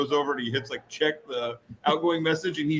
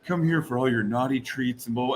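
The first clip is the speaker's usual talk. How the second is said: sultry hotline voice; 3 semitones lower, 3 dB quieter than usual. Retold or imitated. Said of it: "I went into this bit".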